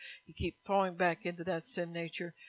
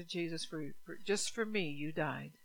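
tender prayer; 3 dB quieter than usual. Retold or imitated. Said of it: "I say".

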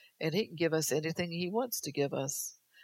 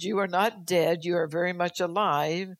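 proclaiming God. Acted. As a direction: declare life over them. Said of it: "God said".

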